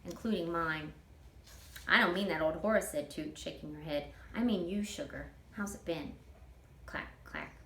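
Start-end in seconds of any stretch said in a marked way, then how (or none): 1.9-6.2 easygoing Southern auntie dreaming aloud; a hint of a chatty older woman; Toot, folksy older woman. Toot's voice in read story. 6.8-7.5 breathy clack, clack sound; soft clacking rings; whispered clack. A narrator's reading. Ring clacking on wheel.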